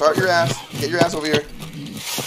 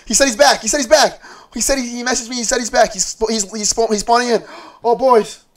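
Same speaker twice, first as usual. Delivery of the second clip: excited relief; 5 semitones higher than usual. Real, not acted.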